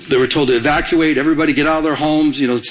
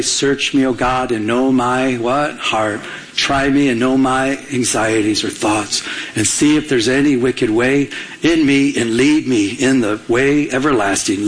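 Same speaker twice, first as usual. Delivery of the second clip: slow, lower-pitched psalm reading; scripture reading; 4 semitones lower than usual. Acted. Pastor reads the psalm to the congregation, scripture reading. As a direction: read the verse out slowly.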